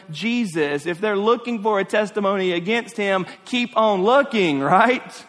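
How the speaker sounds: emphatic preaching. Real, not acted. Preacher proclaiming God's sinless Son to the congregation, emphatic. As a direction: build each phrase as a declaration.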